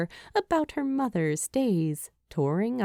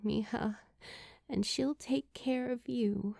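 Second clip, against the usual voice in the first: Julie, tender hushed memory; 2 semitones higher, 5 dB quieter than usual. Acted. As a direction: let it come out quiet and fragile. Julie recalls her mother's words.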